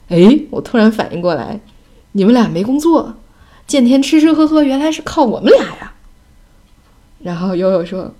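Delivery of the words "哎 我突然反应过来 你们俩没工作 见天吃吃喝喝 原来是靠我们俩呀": louder, pitch climbing as it dawns; sudden realization. Retold or imitated. Son telling jobless parents they live off the kids, sudden realization. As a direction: imitate a kid's loud, indignant-sounding discovery. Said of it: "奥斯卡突然说".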